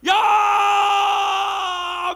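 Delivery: long, high, loud held yell; sustained high shout, imitating a huge army; mimicked battle cry. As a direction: bellow it out like an army's war cry. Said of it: "육십만 대군이 소리를 질러".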